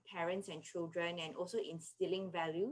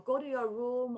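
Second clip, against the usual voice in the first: higher-pitched parental order; mock scolding; 5 semitones higher, 4 dB louder than usual. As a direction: send a child away with raised voice. Parent's scolding commands voiced as example.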